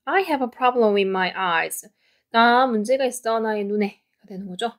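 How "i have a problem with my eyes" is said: slow model reading. Shown as a demonstration. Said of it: "전체적으로".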